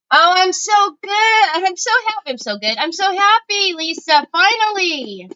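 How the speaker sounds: high, elated gush; gushing delight. Real, not acted. Host tells Lisa she's so happy, gushing high. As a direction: greet a friend you've waited ages to hear from, pitched high. Gushing greeting to returning viewer.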